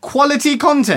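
high, loud mocking repeat; mocking echo. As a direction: throw the phrase back, incredulous.

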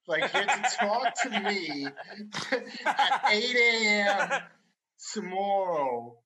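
high, laughing, rasping Joan Rivers impression. Storyteller voices the officer as Joan Rivers. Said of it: "Like a Joan Rivers?".

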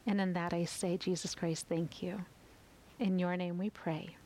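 intimate spoken prayer, pausing between lines; closing prayer. Acted.

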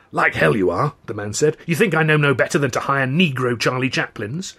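a hint of a scornful waiter; lightly voiced contemptuous boss; stern head waiter. Head waiter ejects them.

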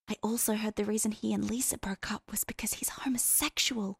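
hushed breathy whisper into his ear. A narrator's reading. Hester whispering gossip into Cass's ear. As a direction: share a scandalous secret. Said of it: "she whispered it right in his ear".

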